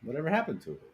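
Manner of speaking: high, indignant mock outrage. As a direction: play the wounded artist. Mock-offended artist rant.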